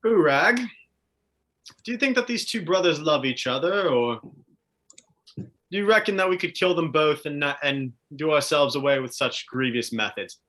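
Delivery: lightly voiced adventurer weighing a threat; Tristan, measured interrogator. Tristan asking Urag about the two brothers, lightly theatrical menace. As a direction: pose it to your companion with theatrical deliberation.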